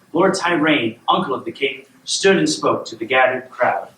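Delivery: measured storybook reading; storyteller setting up a royal tale; bedtime story narration. A narrator's reading. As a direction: read a fairy tale aloud to a child.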